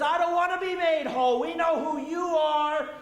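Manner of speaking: a cornered spirit snarling back at Jesus; mock demon protesting; evil spirit. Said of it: "that's what the evil spirit's saying".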